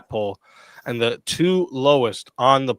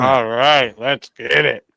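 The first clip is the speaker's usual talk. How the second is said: mouth full; 3 dB louder, slower than usual. Real, not acted. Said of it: "Sorry, I'm talking with my mouth full".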